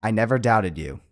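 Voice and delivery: flat, even reading, no emotion; monotone. Shown as a demonstration. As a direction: read it dead flat, no feeling. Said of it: "read the line in a monotone way".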